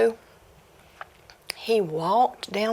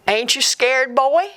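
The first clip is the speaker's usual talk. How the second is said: ghostly taunt; 5 semitones higher, 5 dB louder than usual. Acted. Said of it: "the voice came again".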